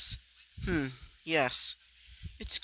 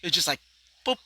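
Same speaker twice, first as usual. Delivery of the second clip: raised, exasperated complaint; frustrated rant; 5 semitones higher, 5 dB louder than usual. Real, not acted. Fan ranting at the writers, louder and exasperated. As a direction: vent about the lazy plot twist. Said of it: "I'm a bit frustrated there".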